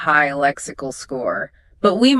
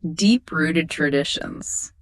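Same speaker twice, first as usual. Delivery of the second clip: slow clear model phrase; 2 semitones lower, 4 dB quieter, slower than usual. Shown as a demonstration. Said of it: "Listeners, grab a pen".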